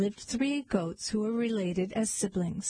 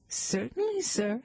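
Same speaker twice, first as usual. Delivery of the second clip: frightened stammer; 3 semitones higher than usual. A narrator's reading. Frightened goat answers the troll, nervous stammer. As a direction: jump up in pitch, timidly obliging. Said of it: "he stammered".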